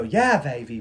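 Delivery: lightly done swinging catchphrase impression; a hint of a sixties spy catchphrase; Austin Powers. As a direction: toss out a playful catchphrase impression. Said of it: "that's her Austin Powers thing".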